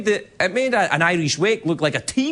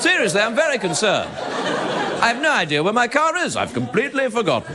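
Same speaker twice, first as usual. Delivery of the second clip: lend the stoner line grave British dignity; posh British actor; 7 semitones higher than usual. Pretend. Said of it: "British actors bring dignity".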